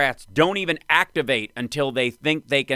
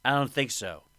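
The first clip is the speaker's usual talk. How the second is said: slurred Shatner impression; lightly voiced drunk Captain Kirk; 4 dB quieter than usual. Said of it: "why do you sound like a drunk Shatner".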